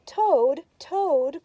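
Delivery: loud high calling; crying out. A narrator's reading. Frog calling Toad to wake up. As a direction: call out eagerly. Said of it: "cried Frog".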